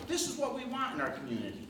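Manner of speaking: lightly quoted approval, quick and high; voiced approval. Voicing the voters' supposed approval.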